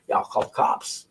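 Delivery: whispered aside, almost voiceless; a wry whispered aside; under his breath. Real, not acted. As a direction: drop to a hushed whisper. Same line, under his breath.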